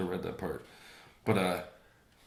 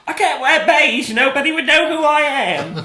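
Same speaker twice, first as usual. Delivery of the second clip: mock British Queen; 12 dB louder than usual. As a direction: squeal it as a hammed-up British monarch. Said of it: "the Queen was asked why she wears bright pastel colors".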